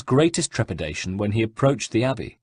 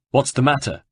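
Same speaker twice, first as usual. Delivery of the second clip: consternation; 4 semitones higher, 3 dB louder than usual. Acted. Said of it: "said Ezio in consternation".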